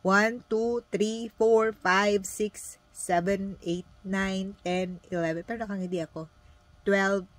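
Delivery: bright, upbeat counting with a smile; smiling call center counting; cheerful counting. Shown as a demonstration. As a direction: count like you love the job. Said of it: "ganito ako magbilang".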